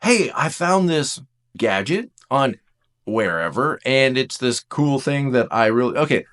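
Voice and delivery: bubbling, slightly breathless enthusiasm; excited sharing. Acted. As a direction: pitch it like you can't wait to share. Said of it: "every time I come to you and I say".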